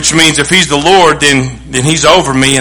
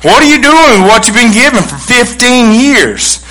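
rising challenge; 6 semitones higher than usual. Real, not acted. Challenging the congregation.

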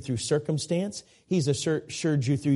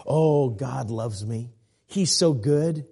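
confident faith; 2 semitones lower, slower than usual. Shown as a demonstration. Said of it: "switch it up".

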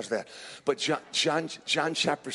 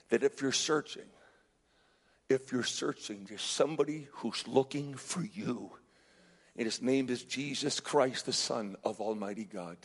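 hushed preaching appeal. Real, not acted. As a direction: speak gently to the one who is searching. Soft altar-call appeal.

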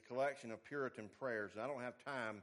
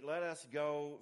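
gentle, kind; 4 dB louder, slower than usual. Retold or imitated. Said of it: "He says gently and kindly".

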